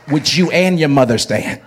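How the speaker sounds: loud corrected call to the congregation. Shown as a demonstration. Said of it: "I didn't say it right".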